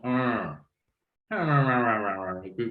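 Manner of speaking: repeated neutral "ah" as a mid-central schwa; relaxed schwa demo, mouth neutral; schwa vowel. Shown as a demonstration. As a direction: hold a lax schwa on each "ah". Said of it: "esa que es como".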